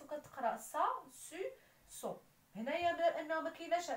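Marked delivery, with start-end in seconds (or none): 0.0-2.2 سا and سو said with a clear s, not k; soft c sound. Shown as a demonstration. Teacher shows students how ç sounds as s. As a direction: demo the cedilla sound: سا, سو with soft s. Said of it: "كنضيف ليها سي سي دي من التحت".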